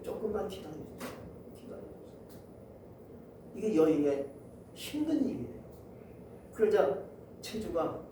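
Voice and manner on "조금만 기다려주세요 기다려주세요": pleading. Acted. Widow begging creditor for time.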